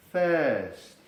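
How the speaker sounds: 'thirst' with a long E and no R; silent R. Shown as a demonstration. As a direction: drop the R, stretch the vowel in 'thirst'. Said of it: "la R se hace muda".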